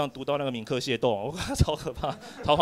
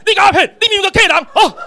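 loud, high laughing yell; big shout; 14 dB louder than usual. Retold or imitated. Brother unmasks him in front of everyone, laughing loud shout. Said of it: "他这一大喊".

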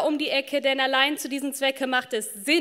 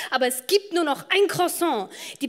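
loud protest; 4 semitones higher, 5 dB louder than usual. Acted. Protests being warned for pushing in.

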